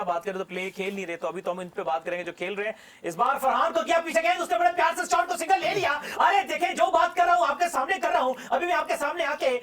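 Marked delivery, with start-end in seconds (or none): 6.2-9.6 raised-pitch street vendor patter; street hawker pitch. Pretend. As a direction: sell it like a roadside hawker. Mock street surma hawker pitch.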